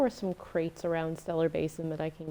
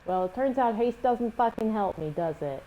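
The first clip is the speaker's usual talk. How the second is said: exasperated; 4 semitones higher, 5 dB louder than usual. Real, not acted. Frustrated at game mechanic.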